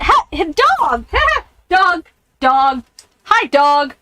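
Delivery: high, bright call to greet the dog. Real, not acted. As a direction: sing out to the dog happily.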